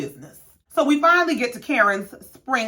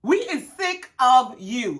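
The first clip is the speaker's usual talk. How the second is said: put-on fed-up kids; 3 semitones higher than usual. Kids telling Mom they are sick of her outfits, exasperated. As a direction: imitate children sick of Mom's look. Acted children fed up with mother.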